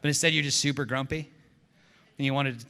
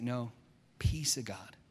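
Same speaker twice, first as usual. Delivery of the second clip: calm reminder; 3 semitones lower, 3 dB quieter, slower than usual. Retold or imitated. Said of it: "He's like".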